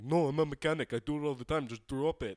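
mock cocky mechanic. Retelling the Polish friend insisting he knows jacks, mock confident. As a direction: play the overconfident mechanic brushing off worry. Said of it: "Polish friend was like".

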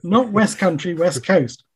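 laughing, exasperated correction; retold dismay at a mistake; mock dismay. Acting out dismay at wrong accent.

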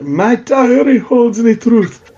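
put-on high, slow, heavily Italian-accented dying words; dying woman whispering a secret in a thick Italian accent. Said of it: "in an Italian accent or Tylean accent".

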